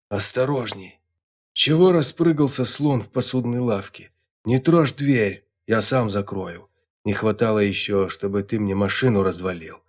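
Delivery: exaggerated indignant scolding; mock indignant. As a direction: scold him with put-on outrage. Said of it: "нарочито возмущённый голос Болта".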